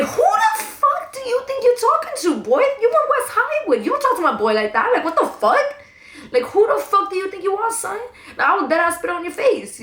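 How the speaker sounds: high-pitched confrontational rant, held back from a full scream; mock furious tirade without full volume; retold screaming. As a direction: re-enact telling someone off at a high pitch. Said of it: "Like, I was screaming".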